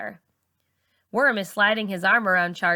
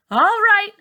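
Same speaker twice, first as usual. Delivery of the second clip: much higher and louder commanding call; stern teacher; 13 semitones higher, 8 dB louder than usual. A narrator's reading. Miss Saunders bursts in on the girls, loud and stern. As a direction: break up the party.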